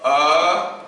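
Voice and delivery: "अमिताभ" in long, separate sounds with gaps; syllable by syllable. Shown as a demonstration. Teacher showing four sounds to students, "अमिताभ" syllable by syllable. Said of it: "तो मुझे अ बोलना है".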